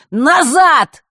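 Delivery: high, loud barked order; sharp command. A narrator's reading. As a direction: stop him in his tracks. Arrow aimed at Nick.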